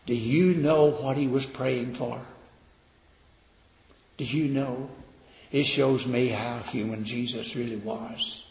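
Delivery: ordinary delivery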